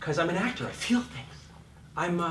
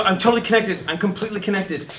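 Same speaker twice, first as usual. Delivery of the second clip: smug; 4 semitones higher, 4 dB louder than usual. Retold or imitated. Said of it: "and they go".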